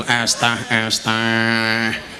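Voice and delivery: very slow, low hawker's chant; iced-tea vendor imitation. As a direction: stretch it out like a street seller. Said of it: "Fasih banget". (menirukan penjual es teh, mendayu panjang)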